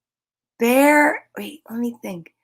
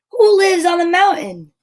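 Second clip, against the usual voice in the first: higher, louder eager question; excited question; 7 semitones higher, 4 dB louder than usual. Acted. Reading to kids, an eager question. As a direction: build suspense for the next flap. Reading the flap book aloud.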